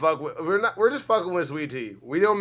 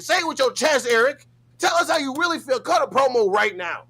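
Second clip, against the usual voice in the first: hype man; 6 semitones higher than usual. Real, not acted. Hyping Eric up to fight.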